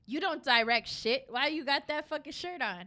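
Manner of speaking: smart ass. Retold or imitated. Clerk mocking customer's director shirt, smart ass. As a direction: needle him like a smart ass. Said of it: "me being a smart ass".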